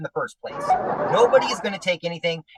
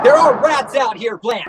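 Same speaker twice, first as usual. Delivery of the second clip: higher, louder mock-alarmed cry; alarmed shout; 5 semitones higher, 6 dB louder than usual. Husband teasing wife about her hairpiece, mock-alarmed shout. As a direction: yell the warning half-laughing.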